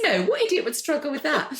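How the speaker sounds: high, loud amused protest; laughing. Real, not acted. Author joining interviewer's joke about tricky words, laughing. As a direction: laugh along in mock scorn.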